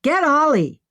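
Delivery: loud, high urgent shout; shouting back. Acted. Emma shouting up to Henry to fetch Ollie, loud and high. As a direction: bark the order up the shaft. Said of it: "shook her head and shouted back".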